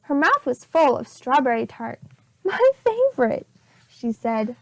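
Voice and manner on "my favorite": high delighted exclamation; pleased gush, pitched up. Acted. Missus Lane tastes tart.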